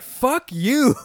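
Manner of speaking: high, put-on voice flinging it back; mock retort. To the camp staff, a high mocking fuck-you. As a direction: toss off a cheeky high-pitched brush-off. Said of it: "I was like".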